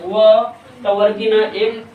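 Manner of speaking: slow व टवर्गी न एक; spelling demonstration. Shown as a demonstration. Teacher spells वर्ण for the class, slow demonstration. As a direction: sound out each letter deliberately. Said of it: "वर्ण का उच्चारण करेंगे तो बोलेंगे".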